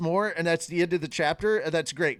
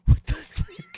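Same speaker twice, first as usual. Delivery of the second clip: squeaky shock; 6 dB louder, slower than usual. Retold or imitated. Reacting in a character voice.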